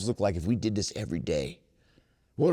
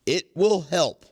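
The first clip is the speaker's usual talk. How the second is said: "will" hit high and loud; stress on will; 7 semitones higher, 6 dB louder, slower than usual. Acted. Reading the book to the meeting, stressing "will". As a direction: insist on "will".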